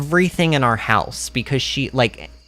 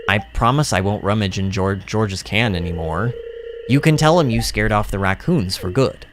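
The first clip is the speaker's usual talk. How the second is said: low, sincere game character voice; a hint of a low, grateful outcast; lightly voiced homeless man; 4 semitones lower than usual. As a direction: pitch it down, mildly earnest.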